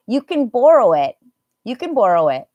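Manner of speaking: "can" light and quick, weight on "borrow"; unstressed can. Shown as a demonstration. Teacher demonstrating permission to learners, unstressed can. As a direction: pass over "can" and land on "borrow". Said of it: "and can is not going to be emphasized".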